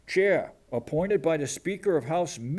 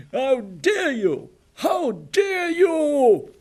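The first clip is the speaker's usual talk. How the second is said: much higher and louder, slow, mocking shriek; hammed-up mock outrage rising to a shriek; mock Swedish girl, outraged; 8 semitones higher, 6 dB louder, slower than usual. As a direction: squeal it like a furious teenage girl. Mocking the Swedish activist, shrill peak.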